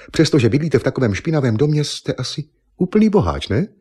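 a hint of a haughty model insisting; lightly voiced proud young woman. A narrator's reading. Eva teasing Argon. (lehce nasazený hlas hrdé modelky, naléhavě)

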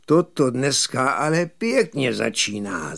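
mildly sour robber's grumble; disgruntled growl. Acted. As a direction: grumble it with a touch of annoyance. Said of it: "zavrčel loupežník rozmrzele". (mírně rozmrzelé zavrčení)

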